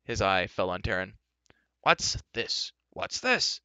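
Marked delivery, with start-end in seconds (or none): 1.8-3.6 high, rising repeated question; blustering astonishment. A narrator's reading. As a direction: boom it out, higher the second time. Giant king seizes unfamiliar Taran.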